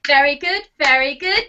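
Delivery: upbeat very good, very good; bright group cheer. Shown as a demonstration. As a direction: praise like a cheerful coach. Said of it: "we'll do the very good".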